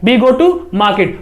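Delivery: very slow, word by word, careful English; teacher slowly modelling an English sentence; slow model pronunciation. Shown as a demonstration. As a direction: spell it out slowly for students to copy. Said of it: "pronunciation करना भी बता रहा हूँ".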